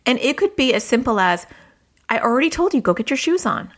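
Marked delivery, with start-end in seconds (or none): 2.1-3.7 mildly exasperated parent, not yelling; parental tone. Shown as a demonstration. Parent telling child to get shoes on, mildly impatient. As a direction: show the tone without raising the volume. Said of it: "like, literally in that tone".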